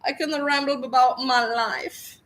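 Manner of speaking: high mocking parody of a self-absorbed woman; mocking impression. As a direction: parody her bragging in a high voice. Mocking her rambling.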